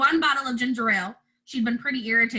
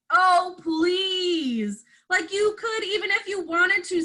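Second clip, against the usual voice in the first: higher, sneering eye-roll of a line; scornful girl; 6 semitones higher, slower than usual. A narrator's reading. Jesse scoffs at her brother, higher and sneering. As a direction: dismiss him with scorn. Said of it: "said Jesse".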